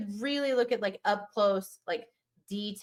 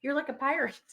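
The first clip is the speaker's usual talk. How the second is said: app voice; 6 semitones higher than usual. Retold or imitated. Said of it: "it says".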